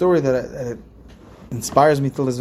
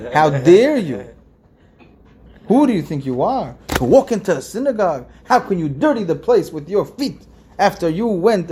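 accusing evil inclination. Retold or imitated. Preacher voicing the evil inclination shaming a congregant, accusing. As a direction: hammer the guilt like a nagging inner accuser. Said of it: "the Yetzer Hara will tell us that".

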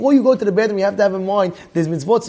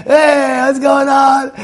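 mock yell, raised pitch; retold yelling; 3 semitones higher, much slower than usual. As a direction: act out a husband yelling at his wife, without full force. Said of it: "he screams at her".

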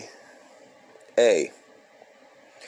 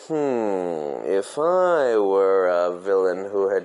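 thinking like a villain; slower than usual. Pretend. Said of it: "think like Ganef Gashmias".

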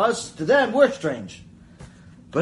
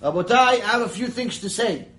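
confident; 3 semitones higher, 4 dB louder than usual. Retold or imitated. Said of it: "with all the confidence in the world".

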